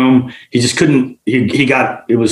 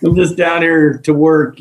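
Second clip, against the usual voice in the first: much higher, drawn-out mock-innocent greeting; nervous placating; 9 semitones higher, slower than usual. Sneaking diver to armed buddy, nervously placating. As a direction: play it innocent, high at first then easing down.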